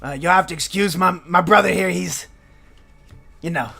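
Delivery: high, friendly apologetic gnome; smooth things over for his brother; the calmer gnome twin apologizing to the party for Mort; polite gnome brother. Acted. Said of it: "he puts his hand and goes".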